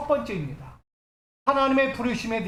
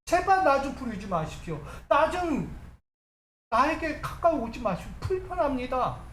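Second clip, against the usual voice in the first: mildly raised, insistent refusal; resentful pleading; 3 semitones higher than usual. Acted. Preacher as Moses begging God not to call him, resentful plea. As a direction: beg to be left alone, with some reproach. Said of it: "원망하는 거예요".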